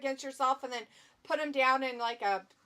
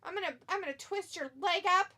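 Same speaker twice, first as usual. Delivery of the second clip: higher-pitched mock trash talk; playful, higher-voiced bragging threat; play-acted wrestler threat; 6 semitones higher than usual. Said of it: "He's like".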